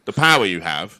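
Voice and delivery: deep, low supervillain voice; booming echoing villain monologue. Acted. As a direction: intone it like a doom-laden villain. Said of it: "I'm gonna do it".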